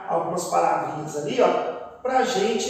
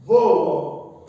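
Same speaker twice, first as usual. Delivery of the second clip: "Vô" held long and firm; teacher leaning on a stretched "Vô"; strongest syllable; 5 semitones lower, 4 dB louder than usual. Shown as a demonstration. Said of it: "A sílaba mais forte".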